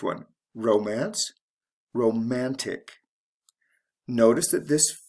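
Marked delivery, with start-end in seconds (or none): 0.5-1.3 "romance" stressed on RO; teacher's model of "romance", beat on RO; stress on first syllable. Shown as a demonstration. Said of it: "from the first syllable". 1.9-2.9 "romantic" stressed on MAN; teacher's model of "romantic", beat on MAN; stress on second syllable. Shown as a demonstration. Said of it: "to the second".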